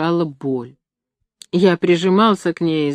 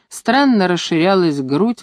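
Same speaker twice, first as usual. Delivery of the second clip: usual speaking voice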